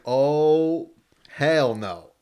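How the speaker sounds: loud, alarmed exclamation. Retold or imitated. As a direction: react like you're spooked. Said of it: "And I was like".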